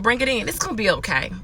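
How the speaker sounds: soft, gentle reassurance; soothing comfort. Retold or imitated. To a struggling coworker, soft soothing reassurance. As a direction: ease them into a hug softly. Comforting someone, inviting a hug.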